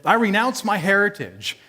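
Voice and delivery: a proclamation to the town, lifted in pitch; public renunciation. Acted. Tax collector telling the town he disowns his people, declaring it. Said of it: "standing out in the middle of town and saying that".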